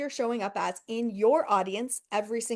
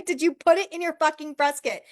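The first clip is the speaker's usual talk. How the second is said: louder repeat; 4 semitones higher, 4 dB louder than usual. Shown as a demonstration. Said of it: "And did you put it in your fucking press kit?".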